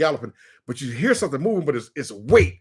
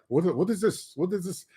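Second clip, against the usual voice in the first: lightly voiced Kenyan accent, higher and soft; 4 semitones higher, 6 dB quieter than usual. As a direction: imitate a baffled Kenyan. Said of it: "the Kenyans would look at us like we were crazy".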